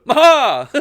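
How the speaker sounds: sudden high loud yelp "Maha!"; imitating a sudden shouted yelp; mock loud yelp. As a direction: blurt it out like a random whoop. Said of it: "just going".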